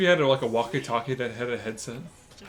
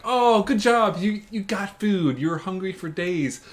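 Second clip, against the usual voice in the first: mock congratulations; 6 semitones higher, 5 dB louder than usual. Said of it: "where it's like".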